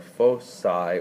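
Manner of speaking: foci said FOH-sigh, soft c; soft-c pronunciation. Shown as a demonstration. Teacher introducing the vertices and foci, soft-c pronunciation. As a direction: say foci with an S sound in the middle. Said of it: "or foci, some people say".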